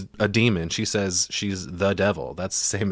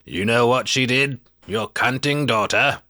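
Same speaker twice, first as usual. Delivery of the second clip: put-on Burke's voice from the girl; 4 semitones higher than usual. Retelling the possessed girl taunting in Burke's voice, mock sneering. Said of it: "she's talking in Burke's voice".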